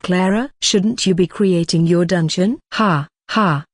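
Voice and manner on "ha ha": flat fake laugh, dry and sarcastic; mock the prank with a hollow laugh; deadpan sarcastic ha ha. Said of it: "I say in a sarcastic voice".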